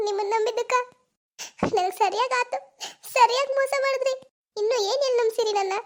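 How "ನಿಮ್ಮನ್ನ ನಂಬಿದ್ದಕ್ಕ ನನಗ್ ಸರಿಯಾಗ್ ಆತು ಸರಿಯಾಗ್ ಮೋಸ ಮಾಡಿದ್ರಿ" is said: weep at your own trust; bitter sobbing. Acted. Girl crying to her lover on the phone.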